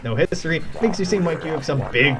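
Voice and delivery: lightly voiced pushy fight promoter; a hint of a slick promoter; pushy organizer voice. Voicing the duel organizer NPC.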